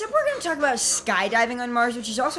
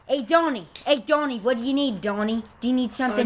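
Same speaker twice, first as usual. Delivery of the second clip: lightly voiced eager henchman; mock mobster; 4 semitones higher than usual. Henchman eagerly answers his boss, lightly voiced. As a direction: fawn over the boss in a put-on voice. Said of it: "And you're always like".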